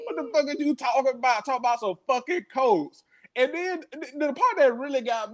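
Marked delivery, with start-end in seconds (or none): 0.0-3.0 laughing yell. Retold or imitated. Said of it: "was yelling at him about T V".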